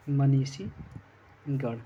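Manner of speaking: मनीषीगढ़ drawn out very slowly in separate parts; slow dictation. Shown as a demonstration. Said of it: "यह लिखा जाएगा आपका".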